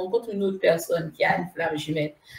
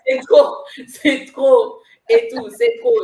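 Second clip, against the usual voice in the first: retold exasperated outburst; 4 semitones higher, 8 dB louder than usual. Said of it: "j'ai dit".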